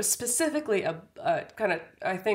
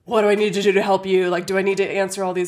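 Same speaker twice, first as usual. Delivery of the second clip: mock panic; 4 dB louder, faster than usual. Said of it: "I would go into total panic".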